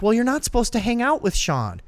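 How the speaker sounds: retold motherly scolding; scolding mom. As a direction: imitate a mother laying down the rules. Voices mother scolding her son.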